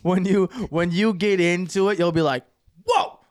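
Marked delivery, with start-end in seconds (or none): 2.9-3.2 high-pitched, stunned disbelief; mock astonishment, voice jumping way up; acted shock. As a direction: react like a floored viewer. Acts out a viewer's shocked reaction.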